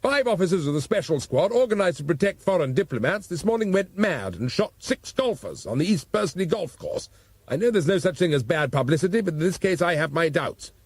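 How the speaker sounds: Commissioner imitating a newsreader, lightly; mock news bulletin. Commissioner mocking the nine o'clock news, dry newsreader tone. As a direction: read it like a mock headline. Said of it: "sound great on the nine o'clock news".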